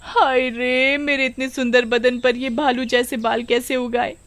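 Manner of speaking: a lightly voiced wailing village woman; mild dismay at her ruined looks; हाय रे वाली औरत. Woman sees hair on body. (हल्की सी रोनी आवाज़ में गाँव की औरत)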